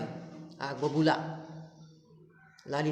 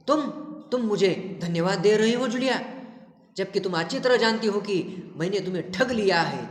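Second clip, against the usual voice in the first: mildly raised, reproachful scolding; angry master; 2 semitones higher than usual. Retold or imitated. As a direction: play the master's indignant scolding, only half shouted. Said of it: "गुस्से में चिल्लाते हैं".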